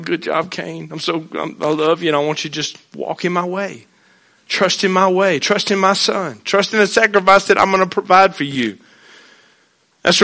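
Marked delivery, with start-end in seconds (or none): 0.0-8.8 much softer, gentle fatherly voice; tender God. Retold or imitated. God welcoming repentant Cain, soft and tender. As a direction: speak it like an embrace.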